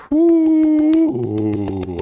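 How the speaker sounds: long, high, loud woo; heat-struck whoop. Real, not acted. Streamer with a burning mouth, long high whoop. Reacting to hot sauce burn.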